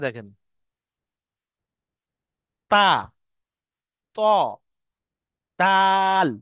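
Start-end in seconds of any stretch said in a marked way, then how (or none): 2.7-6.3 each letter of তা, ত, দাল said loud and apart, tongue tip on the gums; slow isolated letters, over-articulated; Arabic letter demo. Shown as a demonstration. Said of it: "জিভের আগাটা দাঁতের গোড়ায় লাগছে".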